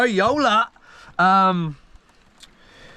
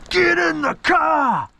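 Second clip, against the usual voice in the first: slow, much higher shouted order; yelling; 11 semitones higher, slower than usual. Retold or imitated. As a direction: shout it like you've lost patience. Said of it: "I was yelling at him".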